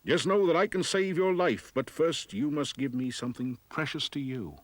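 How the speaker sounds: high, sly bargaining dwarf. Acted. Dwarf bargaining with frightened Anna, high sly voice. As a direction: tempt her with a crafty offer.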